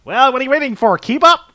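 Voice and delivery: shouting guard, fed up; impatient guard yell. Acted. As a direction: hurry them along. Guard yells at lawyers.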